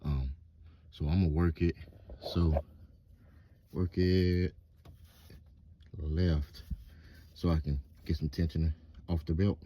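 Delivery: talking while lying beneath a car; lying under a car. Real, not acted. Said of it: "I'm under the car now".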